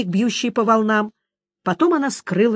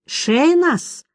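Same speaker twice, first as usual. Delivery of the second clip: exclaimed name; 8 semitones higher than usual. A narrator's reading. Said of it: "воскликнул он".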